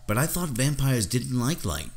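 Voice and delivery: lightly voiced young interviewer, surprised; puzzled boy. A narrator's reading. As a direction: object in an eager, puzzled boy's voice. Boy puzzled, objects to the vampire.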